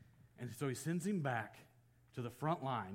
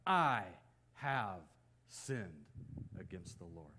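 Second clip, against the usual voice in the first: no begging; 5 semitones lower, slower than usual. Retold or imitated. David confesses without begging for glory, simple halting confession. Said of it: "No begging for restoration".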